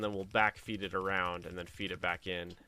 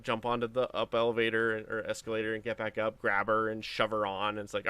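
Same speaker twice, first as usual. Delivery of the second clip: ordinary delivery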